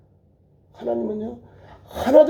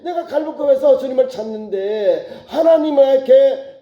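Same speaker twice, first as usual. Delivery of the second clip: high, fervent preacher's plea; anguished lament; 3 semitones higher than usual. Acted. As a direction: pour out the complaint to God. Psalmist lamenting to God. (애타게 호소하듯)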